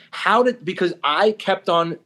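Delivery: exasperated, high-pitched protest; heated. Retold or imitated. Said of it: "I got heated up".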